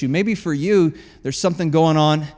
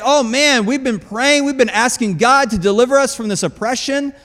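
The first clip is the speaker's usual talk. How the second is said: excited; 4 semitones higher than usual. Retold or imitated. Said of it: "they were all excited".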